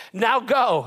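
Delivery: booming divine order; God's command. Retold or imitated. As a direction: order him out the door. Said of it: "He says".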